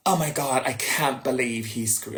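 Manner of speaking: put-on a first, slight go at a French accent; attempted French accent. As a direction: lightly imitate a French woman's accent. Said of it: "I'm trying to do her accent".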